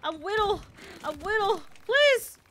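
very high little-creature voice, building to a loud plea; babyish pleading. Pretend. Little crab begging bigger enemies, babyish pleading. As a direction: beg in baby talk, L turned to W.

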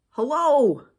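big, high hollered hello; loud tortoise calling out; shouted greeting. A narrator's reading. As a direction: holler it out to someone far away. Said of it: "shouted a tortoise".

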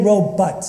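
robot as RO-but; robot, second syllable like "but"; his own pronunciation. Shown as a demonstration. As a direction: say robot with a reduced "but" ending. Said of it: "like I do".

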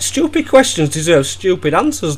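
usual speaking voice

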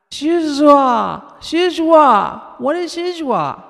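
put-on high, loud little-child call. A narrator's reading. Little Casey calling from the kitchen, high and loud. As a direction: call out like an insistent toddler. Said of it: "Casey called out".

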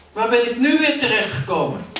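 mumbling to herself. Acted. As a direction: wonder aloud where she has landed. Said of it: "een beetje mompelend in zichzelf". (mompelend in zichzelf)

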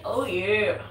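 hammed-up mascot "Oh, yeah"; a lighter second go at the mascot cry; Kool-Aid Man. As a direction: shout it like the cartoon pitcher. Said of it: "Like the Kool-Aid man".

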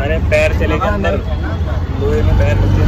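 real upset, telling him off for the pothole; scolding the auto driver after his foot got stuck; angry complaint. Real, not acted. Auto jerk hurt his foot.

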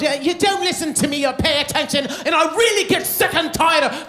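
mock an English wife telling him off; English accent. Husband imitating his wife's English accent in an argument. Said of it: "she goes back and forth".

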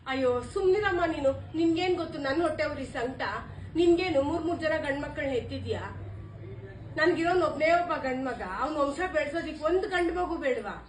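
loud bitter quarrel voice; angry retort. Acted. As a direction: shut her mother up with fury. Quarrel with her mother.

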